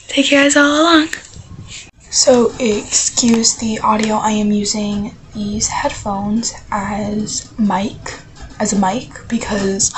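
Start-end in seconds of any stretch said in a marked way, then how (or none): 2.1-9.9 soft, hushed voice through headphone mic; quiet talk into headphone mic; headphones used as mic. Real, not acted. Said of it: "I don't wanna talk loud".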